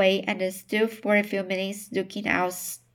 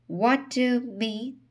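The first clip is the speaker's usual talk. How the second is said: faltering, halting question; stammering; 3 semitones higher than usual. Acted. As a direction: stammer it out, higher. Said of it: "he stammered".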